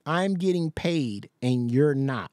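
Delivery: slow, mocking echo of her taunt; mocking repeat. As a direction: drag it out to mock her.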